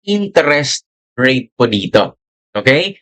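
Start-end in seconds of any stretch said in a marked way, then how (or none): 0.1-1.5 INTEREST RATE set apart word by word; stress on INTEREST RATE. Shown as a demonstration. Teacher pointing students to the key term, stress on INTEREST RATE. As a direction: spell out "interest rate" with deliberate weight. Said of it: "I want to emphasize the word".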